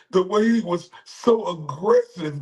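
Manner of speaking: high, mocking quote of the woman; mocking her words. Streamer mimicking the accuser, high and sneering. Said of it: "And then her say".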